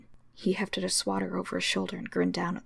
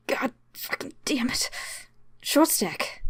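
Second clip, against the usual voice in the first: raised, strained cry of pain; pained yell; 7 semitones higher, 3 dB louder, slower than usual. Acted. Shot guard cursing her wounded arm, pained yell. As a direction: curse through the pain. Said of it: "gave a scream of pain".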